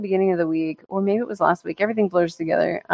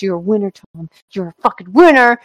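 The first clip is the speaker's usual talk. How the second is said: building self pep talk; 4 dB louder than usual. Retold or imitated. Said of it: "and then he goes".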